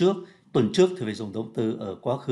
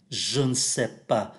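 slow careful reading; slower than usual. Shown as a demonstration. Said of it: "Khi đọc nhanh thì cái âm ơ này cũng biến luôn".

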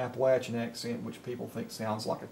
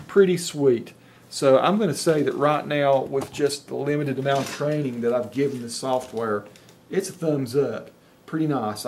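louder, delighted verdict on the software; pleased excitement; 2 semitones higher, 6 dB louder than usual. Real, not acted. Reviewer delighted by the dictation test results, excited. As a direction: cheer the result you just saw.

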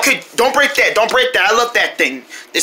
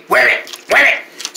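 angry; 3 semitones higher, slower than usual. Shown as a demonstration. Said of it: "You gotta say it angry way".

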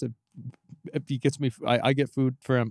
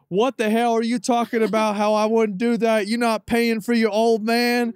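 higher, louder mock-outraged dad voice; loud, high put-on voice of an offended old man; imitating his dad; 10 semitones higher, 6 dB louder than usual. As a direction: play the indignant father ranting on the phone. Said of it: "Is that his accent too?".

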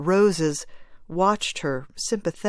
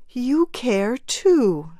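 softly; 6 semitones higher, 4 dB louder, much slower than usual. Acted. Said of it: "she said softly".

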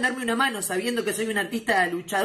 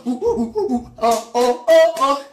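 comic hooting; 3 semitones higher, 6 dB louder, slower than usual. Pretend. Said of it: "llamar en señas".

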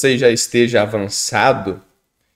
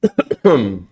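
dry cough; 4 semitones lower than usual. Real, not acted. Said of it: "tomar um remedinho nessa tossinha".

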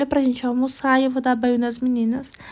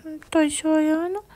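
higher, lightly voiced little girl; 4 semitones higher than usual. Doll daughter answers her mother in a higher little voice. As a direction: lightly play the small daughter.

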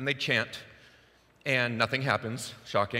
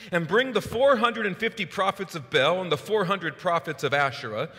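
commanding; 7 semitones higher, 4 dB louder than usual. Retold or imitated. Elijah commands the king.

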